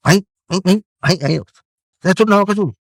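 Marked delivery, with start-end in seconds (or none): 2.1-2.8 mind pulling you away. Retold or imitated. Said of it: "అని పరిగెత్తిస్తుంది".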